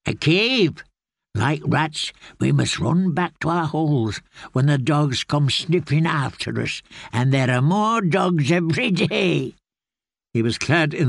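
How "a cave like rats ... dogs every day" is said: startled from sleep, a hint of an old man's voice; drowsy old man, lightly voiced; old grey man. Grey man explains the cave.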